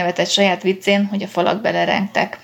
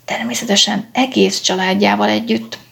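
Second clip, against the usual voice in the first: plain reading voice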